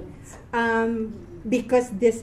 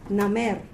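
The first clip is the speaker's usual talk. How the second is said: "Namer" with the accent on its final syllable; demonstrating end stress in "Namer"; stress on last syllable; 3 semitones lower than usual. Shown as a demonstration. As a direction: lean on the second syllable of "Namer". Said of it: "the last syllable has the stress".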